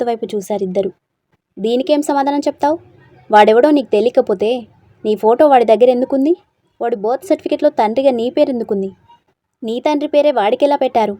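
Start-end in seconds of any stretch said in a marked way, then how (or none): 1.6-11.1 raised, accusing questions; a wife angrily confronting her husband with proof; angry wife. Acted. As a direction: demand answers from your husband. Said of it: "అమృత కోపంగా".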